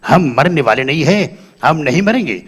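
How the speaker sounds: low, slow, filmy dying speech; dying hero. Retold or imitated. Dying Raaj Kumar asks Radha for their song, low and slow. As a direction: plead grandly for the song, in a deep voice.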